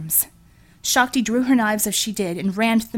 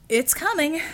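Devil's defiant voice; 7 semitones higher than usual. Acted. Devil, beaten, insists.

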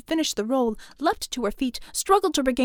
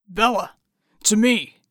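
calling out; 4 semitones lower, 6 dB louder than usual. A narrator's reading. Calling out under fire.

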